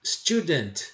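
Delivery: "student" with no vowel before S or after T; English pronunciation. Shown as a demonstration. Teacher models the word for students, English pronunciation. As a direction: end "student" on a crisp bare T. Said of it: "percebe a minha pronúncia".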